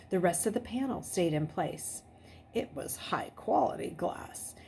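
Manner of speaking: suspenseful read-aloud narration, dropping to a hush at the tense moments; story narration. Acted. Teacher reading a chapter aloud to her class, suspenseful narration. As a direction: read the chapter aloud and keep them on edge.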